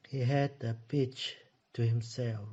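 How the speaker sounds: "had" stressed, said slowly; slow and clear, leaning on "had"; teacher slows down to model "had"; slow careful repeat. Shown as a demonstration. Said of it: "Như vậy là B".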